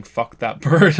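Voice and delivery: yelled loud and harsh; screaming. Retold or imitated. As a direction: scream it at the bird. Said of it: "while screaming".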